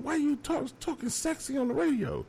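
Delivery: high-pitched words squeezed out through laughter; can barely get it out for laughing; laughing while talking. Real, not acted. DJ cracking up retelling the colleague's radio voice, laughing.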